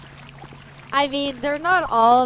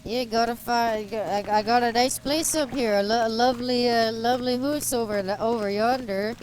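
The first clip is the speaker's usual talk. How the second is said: lightly hammed-up Canadian redneck accent. Streamer showing how Canadian rednecks talk, mock Canadian redneck accent. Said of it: "Canadian rednecks are like".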